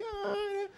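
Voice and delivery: very high pleading little whimper; mock cute whine; puppy-eyed whimper. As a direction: plead with big sad eyes like Puss in Boots. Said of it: "carinha do gatinho do Shrek".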